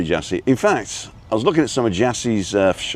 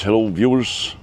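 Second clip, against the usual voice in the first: Kevin the Scotsman. Retold or imitated. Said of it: "I'm channeling Kevin the Scotsman now".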